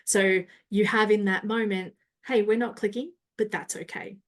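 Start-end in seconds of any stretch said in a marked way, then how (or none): 2.2-4.2 confident. Shown as a demonstration. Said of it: "you can probably hear a change in my voice".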